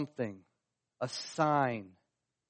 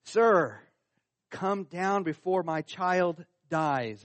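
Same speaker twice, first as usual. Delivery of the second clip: raised, louder cry of "sir", then an urgent plea; pleading; 3 semitones higher, 4 dB louder, slower than usual. Retold or imitated. Father begs Jesus for his dying child, pleading. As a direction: plead like a father begging for help. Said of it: "So he pleads again".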